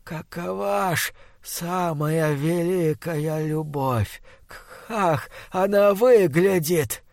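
slow, hushed, rotting monster voice. Acted. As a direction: drag each word like a dying beast. Monster asks final question.

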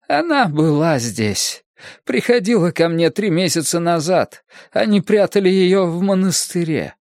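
put-on high, urgent old medium; agitated fortune-teller. A narrator's reading. Fortune-teller revealing the hiding place, high and urgent.

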